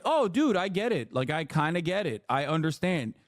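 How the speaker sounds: a sudden mock epiphany that cools off; mock realization. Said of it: "I'm like".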